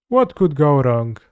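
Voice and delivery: mock it with a sneer; sarcastic. Real, not acted. Sarcastic line then quiet repeat.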